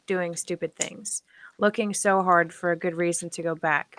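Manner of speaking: measured poetry recital with pauses; deliberate spoken-word delivery; poem reading. Real, not acted. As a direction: read it out as a poem, line by line. Reads out her poem.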